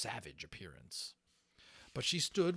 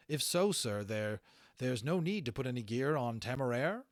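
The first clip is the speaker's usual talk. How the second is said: Holland's voice; 4 semitones higher, 6 dB louder than usual. Acted. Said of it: "that was Holland talking the whole time".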